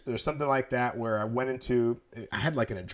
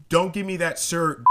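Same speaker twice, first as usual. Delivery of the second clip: higher, mildly mock-angry comeback; angry retort; 5 semitones higher, 3 dB louder than usual. Angry driver rebuffing an apology in the store, mock angry. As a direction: imitate an irate stranger cutting off the apology. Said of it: "who's really angry at me".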